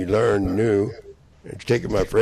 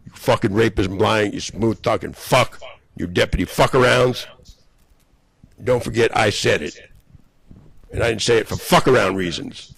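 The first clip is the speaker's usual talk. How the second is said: angry; 4 dB louder than usual. Real, not acted. Continued rant at named enemies.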